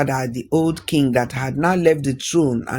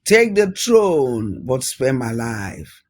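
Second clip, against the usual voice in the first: desperate plea; much slower than usual. Acted. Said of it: "the prince shouted".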